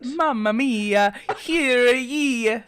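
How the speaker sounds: stretched-out mock Italian accent. Town crier doing one for Italy, mock Italian accent. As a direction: draw out each word like a stage Italian. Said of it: "That's for the Italy of, of it all".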